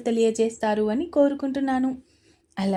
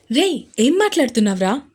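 shocked uncle; 7 dB louder, faster than usual. Acted.

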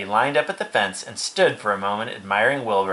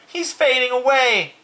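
high, loud drawn-out alarm; scream; 5 dB louder than usual. A narrator's reading. Fern as the pig faints, high screamed alarm. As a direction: wail the alarm high and slow. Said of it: "screamed Fern".

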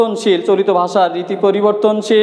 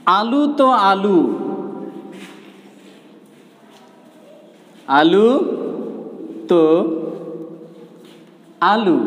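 slow, drawn-out Bogura village dialect; much slower than usual. Shown as a demonstration. Teacher shows students the Bogura dialect, slow Bogura accent. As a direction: speak it the Bogura regional way, slowly. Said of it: "আঞ্চলিক ভাষায় এখানে যদি বলি".

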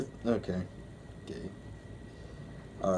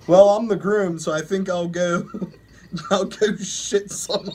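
reading aloud, words breaking into laughter; trying to read through the giggles; reading while laughing; 3 dB louder than usual. Real, not acted. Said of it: "I'm gonna do awful with these stories".

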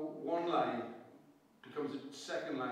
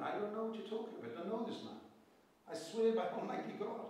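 adamant denial; 5 semitones higher than usual. Retold or imitated. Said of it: "he was being adamant".

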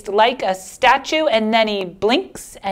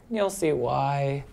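glum trailing off; 6 semitones lower, 8 dB quieter, slower than usual. Acted. Fish sulks.

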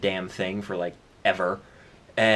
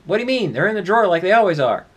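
roommate voice; 7 semitones higher, 6 dB louder, much faster than usual. Acted. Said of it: "Your roommate goes".

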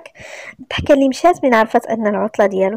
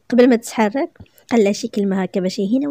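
ordinary delivery

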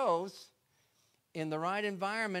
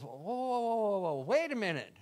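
a lightly voiced excited boy; eager whoa; 2 semitones higher than usual. Young David stopping the men, eager. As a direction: stop them, suddenly keen. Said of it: "and David goes".

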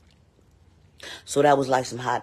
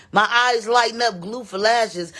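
incredulous mock; 7 semitones higher, 4 dB louder, slower than usual. Real, not acted. Mocking a viewer's comment.

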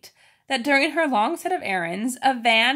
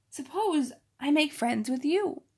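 hushed, secret whisper to the rat; 5 semitones higher than usual. Acted.

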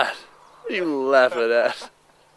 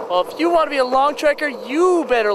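silly high voice; 10 semitones higher, faster than usual. Pretend. Joking high-pitched character voice.

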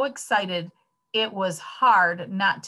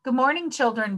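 higher, cheery classroom greeting; beaming teacher; 6 semitones higher, faster than usual. A narrator's reading. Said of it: "beamed the teacher".

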